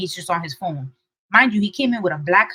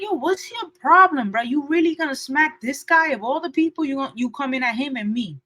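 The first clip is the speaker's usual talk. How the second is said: higher, challenging the man head-on; heated call-out; 4 semitones higher than usual. Retold or imitated. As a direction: call him out, pitched up and pressing. Confronting the man in parking lot.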